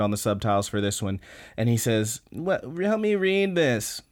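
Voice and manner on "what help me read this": mock high boy voice. Retelling anime, boy's reply.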